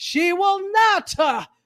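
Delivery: preacher-style preaching delivery. Repeating a line just said, in Pentecostal preacher style. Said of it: "I said that with the the Pentecostal".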